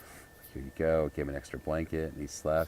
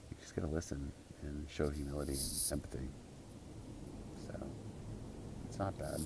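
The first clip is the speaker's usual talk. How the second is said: whispered; 7 dB quieter than usual. Real, not acted. Sincere hushed life lesson.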